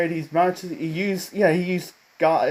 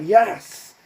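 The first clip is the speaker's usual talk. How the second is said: higher, drawn-out mock cheer; celebrating cheer; 4 semitones higher, 4 dB louder than usual. Friends celebrating their president's death, mock cheer. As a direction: act out a celebrating "yes". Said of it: "they're, uh, celebrating".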